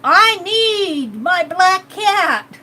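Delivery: slow, drawn-out mock witch demand. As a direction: stretch it out like a cartoon witch calling for her cat. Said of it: "The witch says she needs her black cat".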